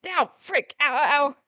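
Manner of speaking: hammed-up ow, ow, ow; fake pain cries. Jeremy faking flour in his eye to trick Christine, hammed-up cries of pain. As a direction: fake an eye injury, overplayed. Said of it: "clutch my eye dramatically".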